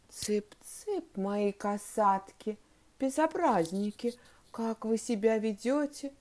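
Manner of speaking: slow, subdued, puzzled read-out; reading aloud. A narrator's reading. Teacher reading pupil's dictation aloud, slow and even. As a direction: read scoldings as if part of the song. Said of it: "и стала вслух читать".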